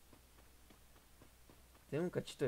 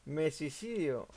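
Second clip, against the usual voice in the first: slow, drawn-out words after a laugh; laughing despair; much slower than usual. Real, not acted. Joking despair after losing team.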